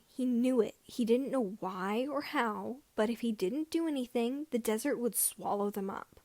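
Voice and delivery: plain reading voice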